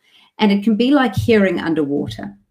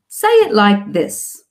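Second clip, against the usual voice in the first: slow, deliberate instructing voice; slow instruction; 3 semitones higher, 4 dB louder, slower than usual. Retold or imitated. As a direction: spell it out slowly to a child. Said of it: "avoid saying to them".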